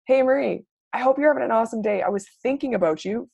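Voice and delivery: bubbly, personal message to a friend; friendly voice note. Acted. Coach demonstrating a voice-note invite, friendly. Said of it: "if somebody sent me a voice note".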